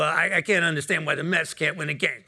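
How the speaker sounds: hint of an Italian-American Brooklyn accent. Elevator stranger grumbling about the Mets, Italian Brooklyn accent. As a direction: lightly mimic a Brooklyn Italian griping. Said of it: "This is my Italian, uh, Brooklyn accent".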